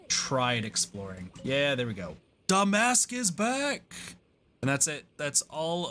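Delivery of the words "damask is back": high, drawn-out happy cheer; excited. Real, not acted. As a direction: greet the returning friend gleefully. NPC character reappears, cheering.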